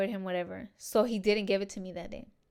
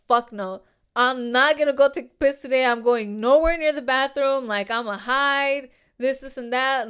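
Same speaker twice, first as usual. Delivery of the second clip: louder, emphatic refusal, slowing on the hide line; loud retold outburst; 2 semitones higher, 8 dB louder than usual. Telling coworkers she won't go to the bathroom, loud emphatic refusal. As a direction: blurt it out like you mean never going near him.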